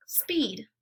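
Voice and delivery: breathy whispered reply; hushed answer to the drill. Shown as a demonstration. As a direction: whisper the word "speed". Deleting last syllable drill.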